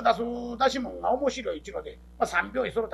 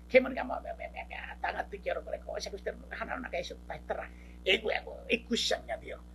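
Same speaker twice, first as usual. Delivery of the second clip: hushed scheming; 3 semitones lower, 6 dB quieter, faster than usual. Acted.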